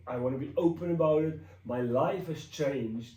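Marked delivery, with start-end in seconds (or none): 1.7-3.1 moved, with halting pauses; earnest testimony on the edge of tears; welling up. Real, not acted. Telling viewers God changed their life, welling up. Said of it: "I'm welling up".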